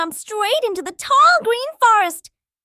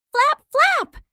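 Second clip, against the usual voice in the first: playful flap; 6 semitones higher, 3 dB louder than usual. Pretend. Bird shadow puppet.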